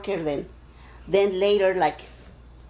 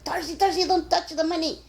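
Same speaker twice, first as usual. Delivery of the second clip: high, laughing mock warning; laughing plea; 9 semitones higher than usual. Office worker laughingly warns Darcy off the dirty coins. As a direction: laugh while urging a coworker not to touch.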